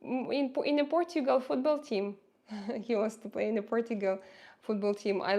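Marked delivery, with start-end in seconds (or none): 0.1-2.2 higher voice, lightly imitating a child to Mama; a hint of an eager son; lightly voiced son. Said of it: "my son always says that".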